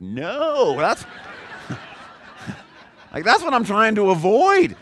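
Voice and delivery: half-laughing cry of alarm; laughing protest. Retold or imitated. Pastor recoiling from the book's advice, laughing protest. Reacting in dismay to book.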